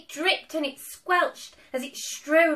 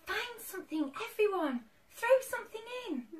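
higher, cheerful witch call; said with a grin; 8 semitones higher, 4 dB quieter, faster than usual. A narrator's reading. Witch telling friends to fill cauldron, grinning. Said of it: "said with a grin".

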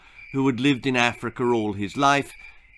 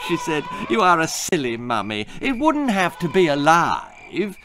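mocking laugh; 6 semitones higher than usual. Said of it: "laughed at her mother".

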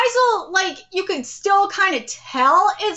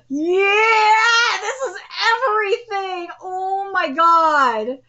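overwhelmed joy; 4 semitones higher, slower than usual. Real, not acted. Ecstatic reaction to scene.

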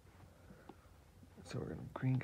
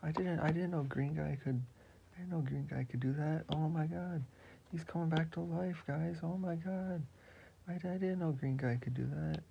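Papadato voice; 4 semitones higher than usual. Acted. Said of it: "Papadato, it's like".

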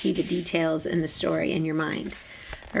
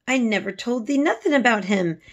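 frightened; 5 semitones higher, 3 dB louder than usual. Acted. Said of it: "she cried".

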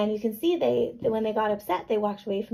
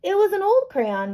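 high, louder grouchy retort; grouchy Matthew; 9 semitones higher, 3 dB louder than usual. A narrator's reading. Boy shrugging off the broken crayon, grouchy. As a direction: brush it off like a grumpy boy. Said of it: "Matthew said in his grouchiest voice".

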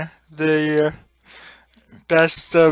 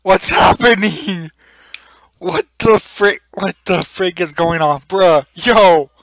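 excited; 4 dB louder than usual. Real, not acted. Chaos in game, loud reactions.

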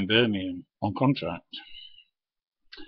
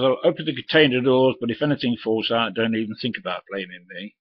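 firm, a bit louder answer thrown back; defiant retort; 2 semitones higher, 3 dB louder than usual. Retold or imitated. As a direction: throw his own words back at him. Driver snaps back at the youth.

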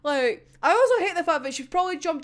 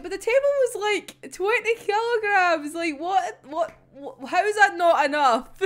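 baffled protest; 3 semitones higher than usual. Acted. Acting out Aya's baffled protest.

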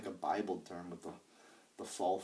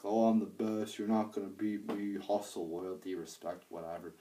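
mocking Cena's stick. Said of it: "his normal P G stick".

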